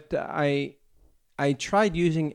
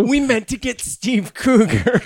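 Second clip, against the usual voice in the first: laughing; 8 semitones higher, 6 dB louder than usual. Real, not acted. Laughing bit.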